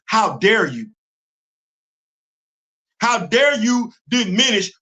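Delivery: heated, building rebuke; a real, angry tirade against the critics; pissed off. Real, not acted. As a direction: really let them have it, rising in force. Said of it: "Yeah, I'm pissed".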